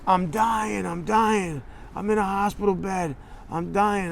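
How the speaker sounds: high, weak voice of a man claiming he's dying; dying man's voice. Retold or imitated. Caller telling the rep he is dying in hospital, feeble and high. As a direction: play the pitiful patient on his deathbed. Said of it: "what's the matter with your voice".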